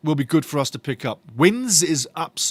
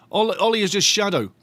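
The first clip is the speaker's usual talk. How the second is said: ordinary delivery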